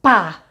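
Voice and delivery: "Pá" dito sozinho, bem marcado; sílaba separada. Shown as a demonstration. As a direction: soletre o som "Pá" com ênfase. Silabando sons para alunos. (sílaba "Pá" bem destacada)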